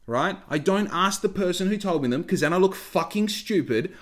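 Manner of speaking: real heated rant about lazy applicants; worked-up rant. Real, not acted. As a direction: rant like it really gets to you. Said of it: "I'm getting emotional about this".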